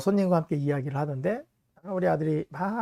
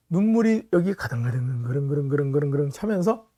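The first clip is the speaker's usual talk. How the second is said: ordinary talk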